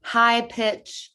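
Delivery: "high pitch" sung up high. Shown as a demonstration. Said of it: "we've got pitch".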